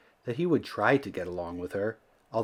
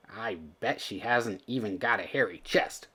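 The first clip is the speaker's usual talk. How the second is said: dismayed Billy; 4 dB quieter than usual. Acted. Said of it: "thought Billy in dismay".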